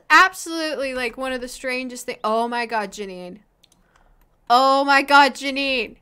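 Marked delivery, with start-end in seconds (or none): 4.5-6.0 a much louder burst on oh my God, then the name; louder exclamation. Real, not acted. Gamer shouts at her Sim Janine, loud disbelief. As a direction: call out in real disbelief.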